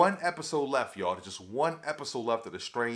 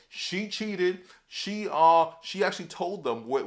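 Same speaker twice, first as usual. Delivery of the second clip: blaming his wife; 6 semitones higher, 4 dB louder, slower than usual. Retold or imitated. Acting out Sanjay blaming his wife.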